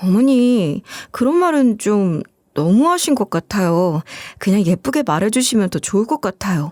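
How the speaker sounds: usual speaking voice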